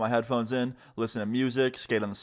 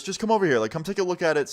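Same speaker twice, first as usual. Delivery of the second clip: imitated urging, pitched up; insistent, higher retold voice; coaxing stranger; 6 semitones higher, faster than usual. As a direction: play a stranger luring someone over. Stranger coaxing the reluctant kid.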